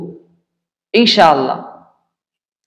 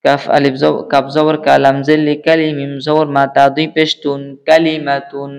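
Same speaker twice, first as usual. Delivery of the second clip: low, even drill chant; spelling recitation; 3 semitones lower than usual. Shown as a demonstration. Teacher spelling Arabic words aloud for learners, low chanted drill. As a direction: intone each letter and syllable in a low, level chant.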